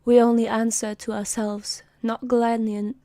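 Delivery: attempted British accent, firmly projected. Actor rehearsing a soldier's boast in a shaky-attempt British accent. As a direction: try this proud line in British. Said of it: "he needs to do a British accent".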